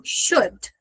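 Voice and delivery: "Should" short and dry with a stopped d; crisp dry "Should", vowel short like U in seco. Shown as a demonstration. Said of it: "Ele vai ter um som sequinho".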